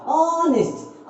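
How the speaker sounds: ऑनेस्ट with a long held ऑ, then नेस्ट; broken into syllables. Shown as a demonstration. Teacher shows where it breaks, ऑनेस्ट with ऑ drawn out. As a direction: stretch ऑ in ऑनेस्ट to show the split. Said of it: "टूटेगा".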